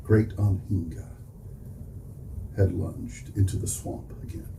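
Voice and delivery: deliberate poem reading, pausing between phrases; poetry recitation. Real, not acted. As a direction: announce the title, then recite it in measured phrases. Recites second poem to audience.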